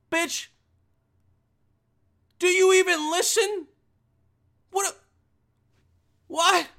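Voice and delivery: high, loud incredulous yelling; comic outraged shout with stunned pauses; exasperated outburst. Acted. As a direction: burst out at her in disbelief.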